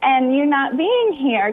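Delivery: slow, tearful, voice breaking; crying. Real, not acted. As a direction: fight back real tears, slowly. Tearing up recalling her sister.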